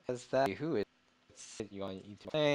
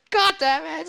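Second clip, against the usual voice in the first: high loud snarling ghoul curse; 12 dB louder than usual. Acted. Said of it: "says the, the ghoul".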